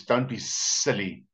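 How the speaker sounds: slow, drawn-out hissy S on silly; lightly voiced wheedling snake; sly snake. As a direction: coax slowly like a storybook snake. Snake coaxes the wary turtle.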